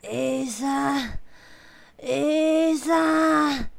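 a lightly voiced dying old man, straining upward; dying old man's last words. A narrator's reading. Old man on his deathbed telling his grandsons, faintly strained. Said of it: "愚公就用最后一口气说".

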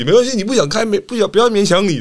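mock coach sarcasm. Coach needling a player about the air con, mock sarcastic. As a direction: needle the player with fake kindness. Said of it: "叫他开冷气".

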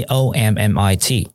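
letters spelled out slowly one by one; slow spelling. Shown as a demonstration. (慢慢拼出字母)

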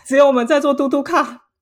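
high, loud words through laughter; laughing while talking. Real, not acted. Telling the host they were stuck on the tuk-tuk, laughing. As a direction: talk through the giggles.

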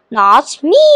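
drawn-out retort with rising end; mildly cried out in defiance; genie's cry. A narrator's reading. Genie refuses to be thankful, crying out. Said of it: "cried the genie".

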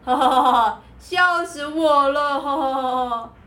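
loud, gloating cackle; mocking bear laugh. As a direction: laugh at someone who fell. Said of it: "小熊觉得很好笑".

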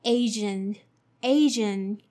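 Asian with a zh sound, AY-zhun. Shown as a demonstration. Teacher modeling Asian for learners, clear. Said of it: "let's see the second one".

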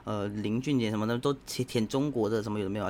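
a hint of a sneering netizen rant; mocking angry netizen. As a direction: lightly mimic an online troll cursing. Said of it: "很多人会骂啊".

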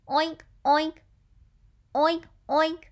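short, punchy oinks, pitched slightly up; pig oinking. Shown as a demonstration. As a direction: imitate a pig in two little bursts. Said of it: "it's a pig".

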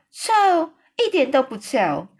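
high, loud indignant cry; shouting the word 臭 high and loud; giant's shout. A narrator's reading. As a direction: burst out in a big giant shout. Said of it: "大叫说".

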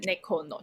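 猫の said starting high and sliding down; high to low demo. Shown as a demonstration. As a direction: let 猫の fall from high to low. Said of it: "就是高到低这样子吗".

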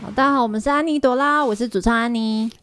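talking with nose pinched; pinched nasal voice, nose held; pinching nose. Real, not acted. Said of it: "你为什么要捏着鼻子讲话？".

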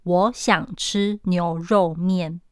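我想吃牛肉面 said slowly here, each word given its beat; 用说话速度念; everyday speed. Shown as a demonstration. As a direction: read the line out slowly and evenly. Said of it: "用平常说话的速度".

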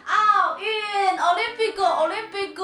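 put-on Mandarin with a Japanese accent, high and loud; hammed-up Japanese accent on Olympic. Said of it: "日本口音吗？".

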